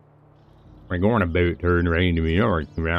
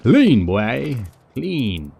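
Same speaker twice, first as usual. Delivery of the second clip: pleased; 3 semitones higher, much slower than usual. Real, not acted. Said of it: "admiring own build".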